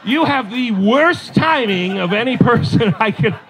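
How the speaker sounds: hammed-up husbandly reproach; exasperated scolding. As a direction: stress each word in disbelief. Husband scolding wife's timing.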